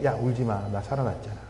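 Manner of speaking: gently hushed, low reassurance; Jesus consoling. Acted. Risen Jesus to weeping Mary, lightly acted gentle comfort. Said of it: "울고 있는 마리아에게".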